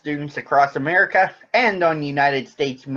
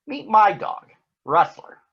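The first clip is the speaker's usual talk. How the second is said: put-on little girl voice; 10 semitones higher, 4 dB louder than usual. A narrator's reading. Prairie Dawn voiced in story.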